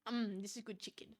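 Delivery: talking with a mouth full of food; chewing while talking. Real, not acted. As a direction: speak through a mouthful of chicken. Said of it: "I'm munching in the background".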